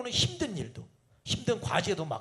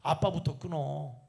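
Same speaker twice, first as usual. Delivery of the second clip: cheeky son retort; 2 semitones lower, slower than usual. Retold or imitated. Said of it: "아들이 뭐라고 그래요".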